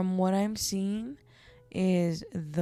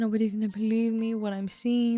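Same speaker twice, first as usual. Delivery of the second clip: mock panic, louder and rushed; hurried, loud retelling of disbelief; retold freaking out; 5 dB louder, faster than usual. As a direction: imitate a frantic mother, voice raised. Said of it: "she's just freaking out".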